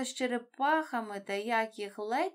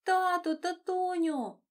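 much higher, louder, drawn-out call to dad; joyful cry; 10 semitones higher, 6 dB louder, slower than usual. A narrator's reading. Nemo cries out on spotting his father. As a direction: call out with all your heart. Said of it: "вигукнув він".

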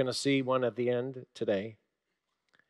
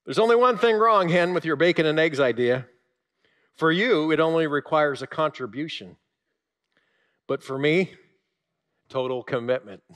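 hog's reply; 2 semitones higher, 5 dB louder than usual. Acted. The hog answering the hen, loud then settling. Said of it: "Then he says this".

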